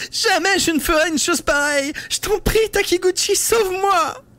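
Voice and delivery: very high, strident begging through fake sobs; shrill sobbing plea. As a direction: plead for rescue like a sobbing victim. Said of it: "d'un ton strident brisé par les sanglots".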